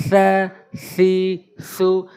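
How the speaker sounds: সা, সি, সু touched very lightly with tongue tip and teeth tips; very light letter sound. Shown as a demonstration. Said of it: "একদম হালকা করে জিহ্বার আগা এবং দাঁতের আগা".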